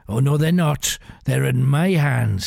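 a mild, understated snap; snapped. Acted. Pirate rebuffs the bishop, mild snap. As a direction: cut him off with a touch of anger. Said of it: "snapped Khaki".

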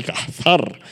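"cazar" slowly, breathy H between syllables; Hebrew-style pronunciation. Shown as a demonstration. Preacher contrasts the two Hebrew words, "cazar" with long H and stressed ending. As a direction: stretch "cazar" as cah-HAR. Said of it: "con una H en medio".

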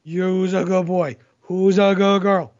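put-on talking to a baby. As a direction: coo at a puppy. Baby talk to pets.

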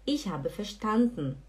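"verstanden" as fer-SHTAN-dn, slowly; swallowed final E. Shown as a demonstration. Teacher putting it back in the sentence, swallowed ending. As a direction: close "verstanden" on n with no vowel. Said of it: "a gente fala verstanden".

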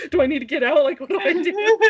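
rattled, asking in a rush what to do; retelling her flustered questions to the mechanic. Retold or imitated. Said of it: "And I was all flustered".

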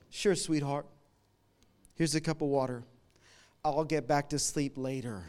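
soft, gentle and patient; tender sleepy husband. Retold or imitated. Husband to his thirsty wife at night, soft and tender. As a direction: hush it like a sweet sleepy reply at night.

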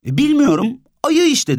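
put-on high child's unsure voice; hesitant child. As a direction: shrug it off like a kid. Orhan child voice.

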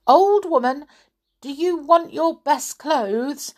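put-on young Rick calling up high, rising hopeful; a boy hollering a question up at her; high boy's call. Rick calling to the old woman, high and eager.

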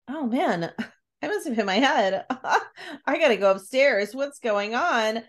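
confused, half laughing as she comes to; giggly mock daze after a knock on the head; dazed laughing quote. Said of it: "she's like".

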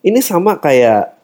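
ordinary talk

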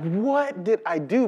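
mock-bewildered question at normal volume; baffled recruit. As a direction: ask it openly, playing the puzzled innocent. Repeats the recruit's question aloud.

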